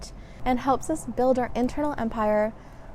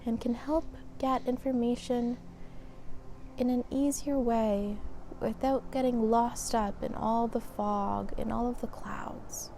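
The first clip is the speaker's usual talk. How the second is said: calm, measured meditation guide with long pauses; guided meditation. Acted. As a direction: lead them gently through breath and body, leaving space between phrases. Leads a mindfulness session.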